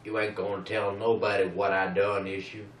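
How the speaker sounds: bad Pennsylvanian accent. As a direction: attempt a Pennsylvanian accent and miss. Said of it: "That's not a Pennsylvanian accent".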